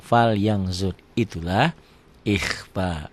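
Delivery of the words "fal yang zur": "yang zur" with ng in place of N; N read as ng. Shown as a demonstration. Teacher demonstrates ikhfa reading, "yang" with ng before "zur". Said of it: "Dibacanya tambah G".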